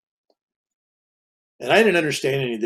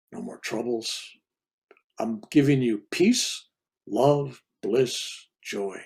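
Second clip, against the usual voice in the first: saintly voice. Retold or imitated. The feminine voice calling him away, lightly voiced and inviting. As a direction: coax gently, a hint of a saint calling. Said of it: "feminine voice, saintly".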